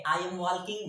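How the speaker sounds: "walking", silent l wrongly pronounced; confident mispronunciation. Retold or imitated. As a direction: mimic a learner saying "wal-king" firmly. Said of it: "हम लोग गलत नहीं पढ़ना है".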